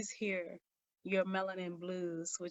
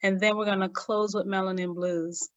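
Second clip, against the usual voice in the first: calling out; 10 dB louder than usual. Real, not acted. Host addresses crowd, announcing.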